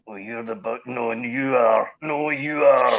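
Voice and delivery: drawn-out retort, rising in pitch and volume; play-acted bickering, stretching the last word; building mock argument; mock back-and-forth squabble.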